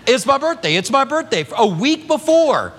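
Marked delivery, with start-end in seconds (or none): 0.1-1.5 cheery birthday announcing. Retold or imitated. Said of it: "she tells everybody everywhere".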